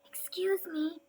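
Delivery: quiet timid excuse me; polite cough-voice. Acted. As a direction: clear your throat to get his attention. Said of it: "coughed a cricket".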